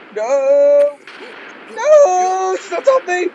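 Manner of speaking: high, loud wail of alarm; panicked screaming. Real, not acted. Player with the princess on top of them, panicked screaming. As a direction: cry out as the enemy is on you.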